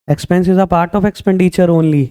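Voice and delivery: very slow, word-by-word definition; measured dictation pace. Shown as a demonstration. Teacher dictating the key line slowly to students.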